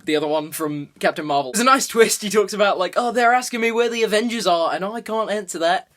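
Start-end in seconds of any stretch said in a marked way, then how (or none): 3.0-5.9 badly faked Australian accent; terrible Australian accent. Skrull saying what he's being asked, terrible Australian accent. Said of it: "That's my Australian accent. It's terrible".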